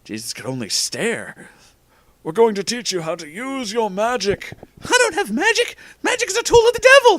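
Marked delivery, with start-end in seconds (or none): 2.2-4.5 high, theatrical wizard voice; raised character voice; Dumbledore announcing. A narrator's reading. 4.8-7.2 shrieking falsetto outrage; high, fast, horrified protest; Jesus interrupting. A narrator's reading. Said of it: "Jesus interrupted".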